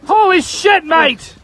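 excited yelled exclamation; yelling. Real, not acted. Angler to his mates at a big fish, yelling. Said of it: "why are you yelling".

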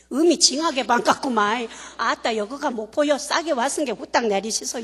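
put-on hearty Jeolla accent welcome; Jeolla dialect announcement. Speaker pretending the Mokpo PA speaks in Jeolla accent. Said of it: "전라도나 광주 쪽으로 가면 ... 어떻게 하냐면 이렇게 하죠".

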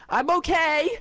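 very high character squeal; high-pitched, throat-hurting cartoon cry; throat-straining squeal. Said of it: "Oh, God, my throat".

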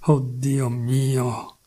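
very slow, drawn-out cry of despair; a defeated, very slow oh my God. Acted. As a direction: let it sink out slowly, hopeless.

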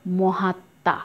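মহাত্মা as mohat-ta, m unsounded and slightly nasal; slightly nasal, silent ম. Shown as a demonstration. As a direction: double the t in মহাত্মা, no m. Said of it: "একটু নাসিক্য হয়েছে". (মহাত্মা-য় ম অনুচ্চারিত, একটু নাসিক্য)

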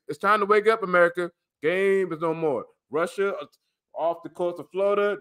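urgent conspiracy rant to camera; paranoid late night rant. Real, not acted. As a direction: warn them the war is here.

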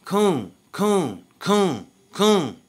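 each word a high, falling shout; imitated call-out. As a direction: call it out like brothers on the street. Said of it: "brothers call him out".

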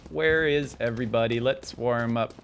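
measured monotone, every word placed evenly; put-on monotone character. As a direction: drone each phrase out like a mock robot. Puts on a voice warming up.

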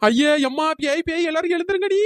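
alarmed cry, pitch climbing; frightened wake-up yell; panicked yelling. Acted. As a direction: rouse everyone in terror of a ghost. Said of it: "இப்படி கத்திட்டு திரியறா".

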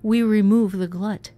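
high loud greedy monster voice; hungry monster. Acted. Creature bargaining for souls, high greedy voice. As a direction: bargain like a starving beast.

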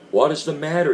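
shocked husband crying out; startled loud outburst; cried out. A narrator's reading. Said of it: "he cried".

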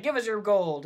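lightly voiced bandit making a demand; road bandit. Ambushers to travelers on the road, mock demand. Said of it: "pop out in the road and be like".

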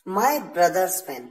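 very slow, each word clear; slow dictation. Shown as a demonstration. Teacher reading the example very slowly. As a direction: spell it out slowly for learners. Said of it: "क्योंकि मेरा भाई एक है".

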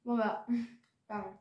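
muffled behind hand; talking while chewing; hand over mouth. Real, not acted. Seen 1: Hand covers mouth at start while chewing candy; gone by 1.6.

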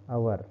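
teacher repeats "अवर" with no h; hour without h. Shown as a demonstration. Teacher showing students "अवर" again, no h. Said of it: "मैंने pronunciation करके बताया".

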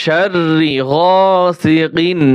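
গাসিকিন slow, with a clear, unnasalized final ন; clear recitation. Shown as a demonstration. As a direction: say কিন clearly, without ghunnah. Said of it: "স্পষ্ট হবে". (স্পষ্ট করে ধীরে তেলাওয়াত)

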